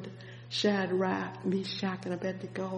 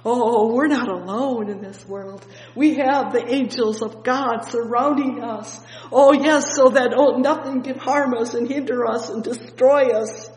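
loud and higher, triumphant; preaching at full force; 4 semitones higher, 9 dB louder than usual. Acted. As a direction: shout assurance to the faithful. Preacher climaxes on protection.

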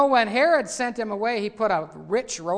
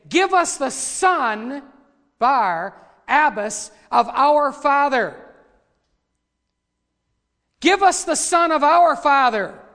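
crowd demand; 4 semitones higher, 6 dB louder, slower than usual. Retold or imitated. Preacher voicing crowd's demand.

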